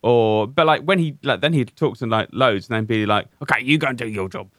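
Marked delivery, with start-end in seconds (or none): 3.4-4.5 lightly put-on Birmingham accent; a half-hearted stab at Birmingham; hint of a Birmingham accent, imitating; bad Birmingham accent. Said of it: "that was a bad accent 'cause he's got a Birmingham accent".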